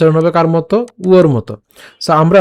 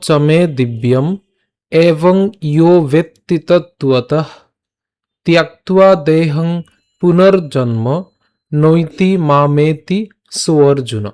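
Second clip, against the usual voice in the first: slow, measured Sanskrit shloka recital; slow verse recitation; much slower than usual. Shown as a demonstration. Teacher reciting the Gita verse to viewers, slow and measured. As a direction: recite each phrase slowly like scripture.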